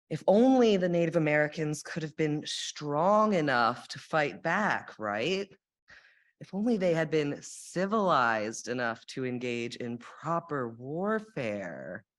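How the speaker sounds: mock earnest, dripping sarcasm; sarcastic. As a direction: say it sarcastically, tongue in cheek. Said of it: "I'm being sarcastic".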